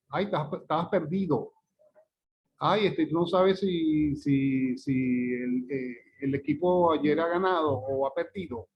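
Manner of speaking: acted example with over-pronounced d's in "perdido"; mock overcareful speaker, hitting "ganado" and "perdido"; imitación sobrearticulada. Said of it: "usted no dice perdido". (imitando un habla con "perdido" demasiado marcado)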